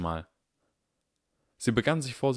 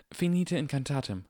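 spell incantation; 7 semitones higher than usual. Acted. Hermine casting spell.

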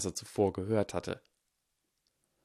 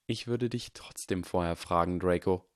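gently. Acted. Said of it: "sagte die Figur in den Schatten sanft".

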